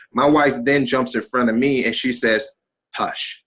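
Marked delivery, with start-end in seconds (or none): 3.0-3.4 softly, gently hushing; calm hush. Retold or imitated. Wife calming her angry husband, soft and steady. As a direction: settle him with one soft word. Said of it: "Like, just that calm".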